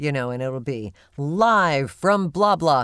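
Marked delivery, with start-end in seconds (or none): 1.2-2.8 loud announcer voice with "live" drawn out. Showing how a live announce line gets read: own live announcer voice. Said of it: "I'll go into my Randy Thomas voice".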